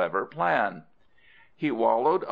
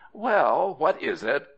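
high, raised "well", then questioning; surprised query; 6 semitones higher, 3 dB louder than usual. Acted. Monkey to the crocodile below, surprised query. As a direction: answer the caller in high-pitched surprise.

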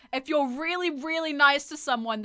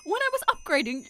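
higher-pitched character attempt; high, less forceful game-character read; still-wrong character voice; 5 semitones higher than usual. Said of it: "it's still wrong".

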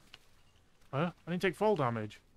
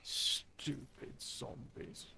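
whispered; 6 dB quieter, much slower than usual. Real, not acted. Muttering insults at zombies.

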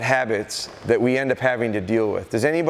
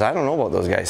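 dog's doubtful voice; 4 semitones lower, faster than usual. Retold or imitated. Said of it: "She says".

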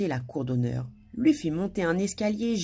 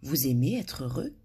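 gentle; 3 semitones lower than usual. A narrator's reading. Madame Bonheur questions the sobbing king, gently. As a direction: gently put question, no push. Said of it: "demanda doucement".

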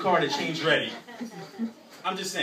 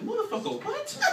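high squeaky outraged disbelief; mock outrage; 3 dB quieter than usual. Outraged passenger shrieking at the bus driver.

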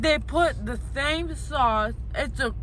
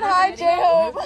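excited squeal; 4 semitones higher, 8 dB louder than usual. Retold or imitated. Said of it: "She said".

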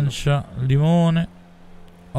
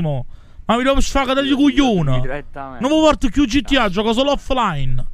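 heated, raised cursing rant; angry rant; 4 semitones higher than usual. Real, not acted. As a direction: vent your fury at the players. Raging rant at other players. (sfogo arrabbiato)

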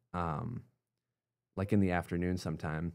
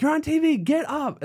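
much higher, louder urgent yell; excited shout; 9 dB louder than usual. Retold or imitated. His dad waking him because he's on TV, an excited shout. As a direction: shout him out of bed with the news.

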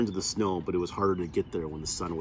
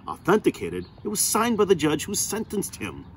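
indignant disbelief; 10 semitones higher, 3 dB louder than usual. Acted. Indignant lawyer rebutting the warden.

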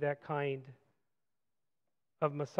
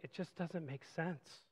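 weary doubt; 2 semitones lower, 14 dB quieter, slower than usual. Retold or imitated. Voicing our doubt.

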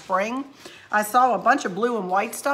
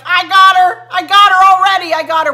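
high, loud triumphant crowing; teasing victory shout, louder and higher; gloating Brady; 10 semitones higher, 13 dB louder than usual. Retold or imitated. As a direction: crow it like you just won. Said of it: "And Brady's like".

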